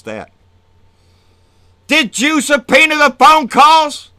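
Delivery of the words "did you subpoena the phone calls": mocking Jordan. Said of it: "mocking Jordan question".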